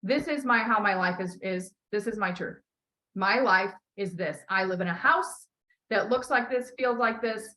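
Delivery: measured, calm declaring; declaration to guides. Shown as a demonstration. Coach modelling the declaration to the guides, measured and calm. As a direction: announce your life as already true. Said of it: "you're gonna call in your guides and you're gonna say".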